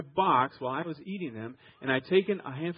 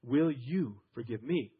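sincere plea; 4 semitones lower, slower than usual. Shown as a demonstration. Husband humbly asking his wife to forgive him, sincerely. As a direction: ask it gently and mean it. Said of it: "acknowledge the problem is with you".

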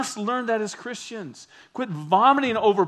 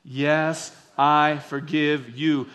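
slow, deliberate call to repeat; leading group recitation; 3 semitones lower, 3 dB louder, much slower than usual. Shown as a demonstration. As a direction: lead the congregation word by word. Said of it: "let's say those words together".

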